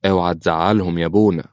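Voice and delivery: lightly firm warning. Acted. Daughter warns the priest off the sisters, firm. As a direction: say it with a touch of resolve. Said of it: "قالت ملك في حزم".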